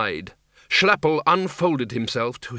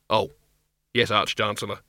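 sheepish; 2 semitones lower than usual. Acted. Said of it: "The Dean hung his head".

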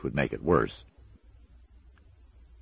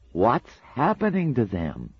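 alarmed; 9 semitones higher, 3 dB louder, slower than usual. A narrator's reading. Newt's alarm rising.

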